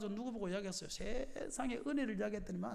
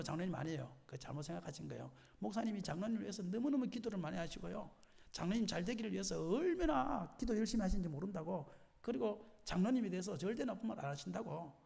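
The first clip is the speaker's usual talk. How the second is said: mildly softened, lowered voice; soothing reassurance; 6 dB quieter than usual. Acted. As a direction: play a peacemaker gently reassuring an elder. Acting a conciliator soothing an elder.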